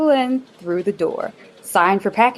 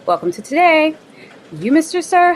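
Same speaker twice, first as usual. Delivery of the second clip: bubbly hostess. Acted. Bubbly office manager introduction.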